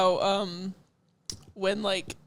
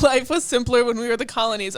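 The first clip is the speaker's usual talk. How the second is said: wistful American; 3 semitones higher, 5 dB louder than usual. Retold or imitated. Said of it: "We're just like".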